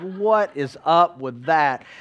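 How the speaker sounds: slow, drawn-out disbelief; baffled retort. Retold or imitated. Kid reacting to a silly picture-day shirt, mock baffled. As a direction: stretch each word in mock bafflement. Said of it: "You're like".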